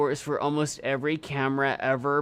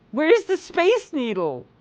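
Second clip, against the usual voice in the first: high, loud, slow incredulous question; a shocked, much higher and louder take; 12 semitones higher, 5 dB louder, slower than usual. Real, not acted. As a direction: drag it out high in loud disbelief. Incredulous about the missing landmark.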